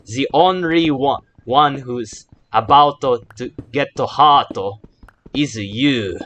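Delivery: trying for an authentic Japanese accent; careful attempt at a real Japanese accent; light, earnest Japanese accent. Shown as a demonstration. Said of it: "let me try to pronounce that in a Japanese accent".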